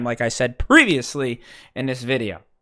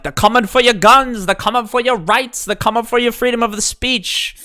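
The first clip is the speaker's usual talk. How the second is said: higher and louder mock old-timer ranting; 8 semitones higher, 4 dB louder than usual. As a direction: ham up a paranoid grumpy old-timer warning. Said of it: "sound like one of those old timers".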